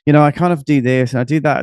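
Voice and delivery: quick, vague, self-effacing; downplaying. Networker shrugging off their own property business, downplaying it. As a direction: rush past it like it's no big deal. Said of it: "everyone will downplay".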